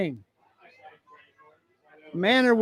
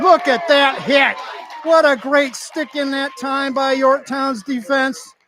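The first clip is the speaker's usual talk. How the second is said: excited; 4 semitones higher, 4 dB louder than usual. Real, not acted. Big hit on live play-by-play.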